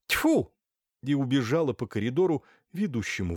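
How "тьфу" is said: очень высокое громкое «Тьфу!»; сплюнь с презрением; гневный плевок. Acted. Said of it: "она гневно произнесла". (блаженная гневно плюётся, высоко)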